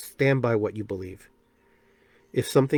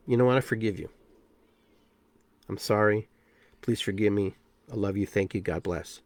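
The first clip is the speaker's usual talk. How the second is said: tender self-forgiveness; 3 semitones lower than usual. Shown as a demonstration. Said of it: "doing the inflections, using the words".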